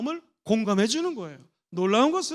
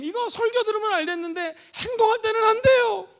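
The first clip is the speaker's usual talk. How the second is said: whining complaint; 9 semitones higher, 6 dB louder than usual. Shown as a demonstration. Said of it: "목사님".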